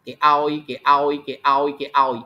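slow, even chant of គេឲ្យ; slow repetition. Shown as a demonstration. Teacher drills what is given, slow repetition of គេឲ្យ. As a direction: repeat គេឲ្យ slowly, drawing out each one.

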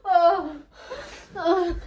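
panting oh after effort; gasping for air; out of breath. Real, not acted. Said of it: "I'm out of breath now".

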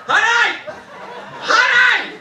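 giddy high-pitched calling to wife; excited high call. Retold or imitated. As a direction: call out like you spotted a celebrity. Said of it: "We got a genuine Tigger here".

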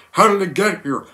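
high, barking drill sergeant voice; Sergeant Hartman. Retold or imitated. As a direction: yell at the recruit from above. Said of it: "How does the scene go?".

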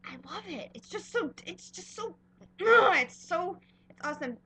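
high, strained fangirl whine; can't find the words, overwhelmed; high squealing ugh; overwhelmed gush. Real, not acted. Overwhelmed by the dress.

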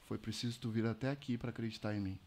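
suave, hushed and unforced; soft divine voice. Retold or imitated. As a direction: say it softly, a tender word in the ear. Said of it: "mano, suave".

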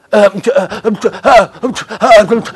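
helpless stuck "Äh, äh" of someone with no answer; flustered stammering. Retold or imitated. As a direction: stammer like a lost debater caught off guard. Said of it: "Ach, du bist total unsicher".

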